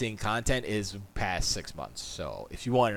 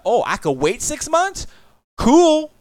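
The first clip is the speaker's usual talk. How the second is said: mock delight; 14 semitones higher, 9 dB louder, slower than usual. Mocking a gamer's reaction.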